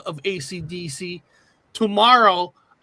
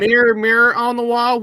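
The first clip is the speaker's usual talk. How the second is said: quoting the famous line; 3 semitones higher, 4 dB louder than usual. Retold or imitated. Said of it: "they're saying it said Magic Mirror".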